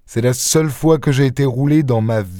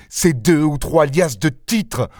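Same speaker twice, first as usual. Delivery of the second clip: mocking echo; 3 semitones higher, slower than usual. Lupin echoes mockingly.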